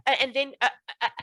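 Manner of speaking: hesitant, searching, with pauses and uhs; pretend forgetting. Shown as a demonstration. Speaker demos faking a memory lapse to the listener, hesitant. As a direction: act like you lost the thread. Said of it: "I pretend like I forget".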